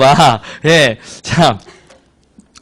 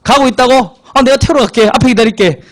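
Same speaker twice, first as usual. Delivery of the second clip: higher-pitched, pushy phone questions; over-attentive caller; 6 semitones higher, 3 dB louder than usual. Acted. Family member phoning to fetch her, hammed-up eagerness. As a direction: play the hovering relative offering a lift.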